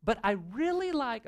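high put-on falsetto with an affected accent; hammed-up lady character; little lady voice. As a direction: play the sweet, clueless lady up high. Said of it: "I'm losing my accent here".

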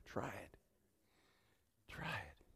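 soft whispered invitation; hushed invite. Acted. Pastor to congregation, whispered coaxing. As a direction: breathe it to them.

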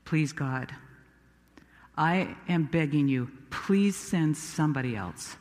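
low, subdued pleading; quiet, humble appeal; begging. Acted. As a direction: plead softly with God. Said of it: "Then I started begging".

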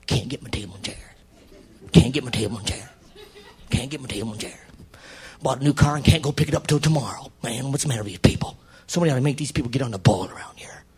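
low, muttered griping, ending in a whisper; grumbling to himself. Retold or imitated. Preacher imitating himself sulking around the house. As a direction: grumble under your breath in a snit.

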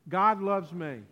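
loud declaration of faith; loud, led-along affirmation; leading a congregational response. Shown as a demonstration. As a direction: call it out for the crowd to join. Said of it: "Say that with me".

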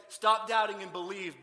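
loud, slow, forceful order; blunt command. Acted. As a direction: order it firmly, before any kindness. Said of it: "He didn't say".

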